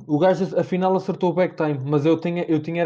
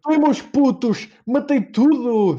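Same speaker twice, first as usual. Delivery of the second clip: slow, high triumphant cheer; crowing over a big win; excited cheer; 4 semitones higher, 3 dB louder, slower than usual. Real, not acted. Gamer celebrates a big kill. (celebração eufórica)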